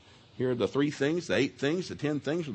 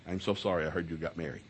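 mock sympathy; 8 semitones lower, 7 dB quieter than usual. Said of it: "They should say".

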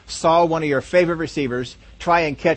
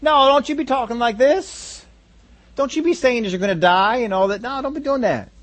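Peter's rebuke; 5 semitones higher than usual. Retold or imitated. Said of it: "began to speak out of the ignorance".

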